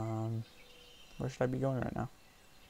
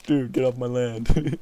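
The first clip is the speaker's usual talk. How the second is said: voicing the creature; 9 dB louder, slower than usual. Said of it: "He's just like".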